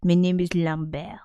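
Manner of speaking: put-on French-accented English, name said "lam-BEHR"; mock French accent. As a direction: play a Frenchman introducing himself. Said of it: "is he actually French? Is he like".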